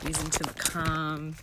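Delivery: meditation voice. Shown as a demonstration. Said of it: "make it more interesting".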